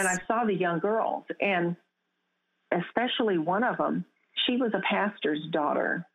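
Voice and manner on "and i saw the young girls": whisper. Real, not acted. Awed recollection continues.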